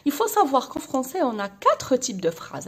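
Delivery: slow, clear French read-out for pupils; slow dictation voice. Acted. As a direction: spell it out slowly like a teacher dictating. Teacher reads French slowly for pupils. (إملاء بطيء وواضح بالفرنسية للتلاميذ)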